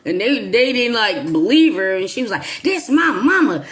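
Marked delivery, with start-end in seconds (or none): 2.6-3.7 mild mock anger. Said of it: "she got real mad".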